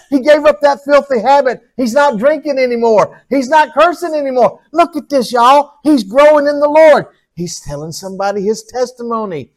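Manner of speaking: a beaming father calling the angels to look; God rejoicing over his child; God the proud Father. Acted. Voices God watching his child.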